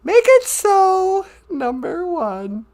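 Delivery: slow, grand starship captain; captain command. Pretend. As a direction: give the order like a captain. Star Trek captain command.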